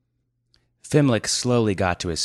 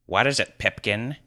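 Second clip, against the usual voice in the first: demanding sorcerer; 4 semitones higher than usual. Acted. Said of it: "demanded the sorcerer".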